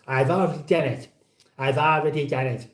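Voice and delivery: lightly imitating a viewer's voice; a hint of a Carry On film voice; his voice. Streamer imitating a viewer's voice, lightly mocking. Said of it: "And that was in his accent, by the way, in his voice".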